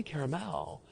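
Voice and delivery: "caramel" insisted on in three syllables, CARE-a-mel; "caramel" firmly said as care-uh-mel; insistent correction. Retold or imitated. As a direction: imitate someone correcting "caramel" with every vowel sounded. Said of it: "you're choosing to correct me".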